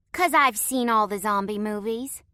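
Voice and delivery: put-on high little-girl voice with a Southern twang; a kid drawling in a Southern accent; child with a country twang. A narrator's reading. Southern girl telling strangers her zombie credentials, with a Southern twang. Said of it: "Her voice was tinged with a country twang".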